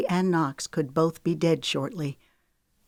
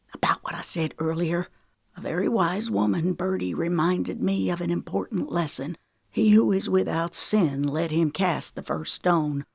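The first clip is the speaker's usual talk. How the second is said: regretful. Acted. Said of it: "Regret wrapped his voice".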